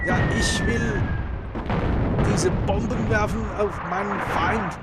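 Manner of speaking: loud, high hammed-up German commander; mock German. Gamer playing a German general, hammed-up German shouting. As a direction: bark it like a comic German general. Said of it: "I need to speak like German".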